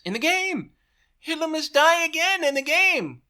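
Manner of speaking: high and loud, hurried backpedal; heated correction. A narrator's reading. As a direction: cover the slip while still fuming. Goebbels correcting himself, still heated.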